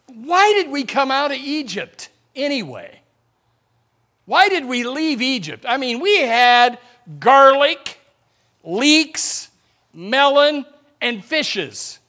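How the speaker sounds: high, loud mock whining; complaining Israelites. Preacher voicing grumbling Israelites longing for Egypt. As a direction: whine for the food of Egypt.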